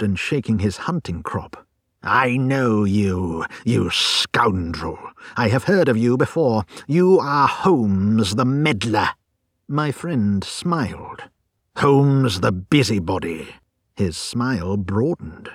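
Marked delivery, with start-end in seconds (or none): 2.0-9.1 menacing growl. Acted. Visitor threatening Holmes. 11.8-13.5 angry. Acted. Angry visitor insults Holmes.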